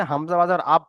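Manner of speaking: আব ending on a closed b, without bounce; no qalqalah. Shown as a demonstration. Teacher showing students a faulty reading, আব without the bounce. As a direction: stop dead on the b of আব, no echo release. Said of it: "তাহলে এটা পড়াটা ভুল হবে".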